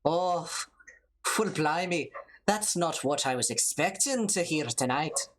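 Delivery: hammed-up Irish accent; Irish lilt, loosely imitated. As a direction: put on an amateur Irish brogue. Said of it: "give me that Irish accent, dearie".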